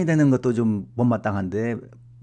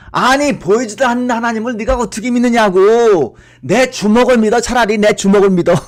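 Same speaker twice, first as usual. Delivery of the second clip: much higher, loud exasperated demand; irritated father; 11 semitones higher, 13 dB louder than usual. Retold or imitated. Father snapping at his son about God. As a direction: bark it like a fed-up father. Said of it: "아버지가 항상 짜증을 내면서".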